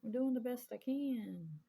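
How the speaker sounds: loud and slow, pleading with life; desperate plea. Retold or imitated. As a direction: cry out at how unfair it is. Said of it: "and it's like".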